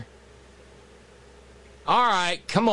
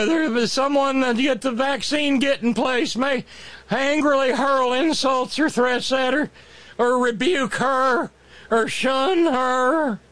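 mock dramatic; 3 semitones higher than usual.

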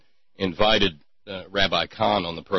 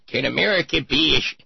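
put-on cranky old man voice; 7 semitones higher, faster than usual. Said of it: "cranky old man voice".

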